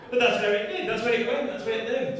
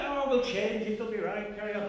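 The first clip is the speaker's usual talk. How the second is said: attempted Northern Irish accent; 6 dB quieter than usual. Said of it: "I can't do the accent".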